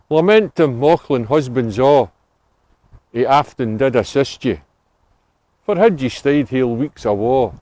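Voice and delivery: Scots poem recital. Acted. Guide recites Burns to the tour group, measured poem recital. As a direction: read the Burns verse in a measured, lilting recital. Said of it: "quick poems now in, uh, the Scottish dialect".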